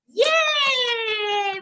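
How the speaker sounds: high, long drawn-out yay; excited cheer. Pretend. Teacher celebrating a right answer with the children, excited cheer.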